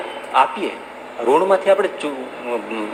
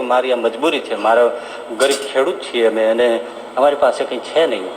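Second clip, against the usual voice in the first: lower, halting and sorrowful with long pauses; a poor boy's gentle despair, lightly voiced; understated tearful boy; sad pleading boy; 3 semitones lower, 3 dB quieter than usual. A narrator's reading. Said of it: "ઉદાસ થઈને રડતો".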